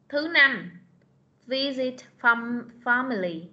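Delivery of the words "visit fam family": Visit family said slowly, syllable by syllable; slow model reading. Shown as a demonstration. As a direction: read it slowly for the class to copy. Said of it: "từ thứ năm". (đọc mẫu chậm rãi)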